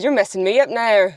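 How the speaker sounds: Irish accent slipping into Scottish; Scottish-sounding Irish attempt. Shown as a demonstration. Complaining to a sibling, muddled Scottish-Irish accent. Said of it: "That's Scottish".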